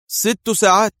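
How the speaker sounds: can't believe the number; surprised. A narrator's reading. Adham surprised by the six-hour deadline. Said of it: "ارتفع حاجبا أدهم في دهشة".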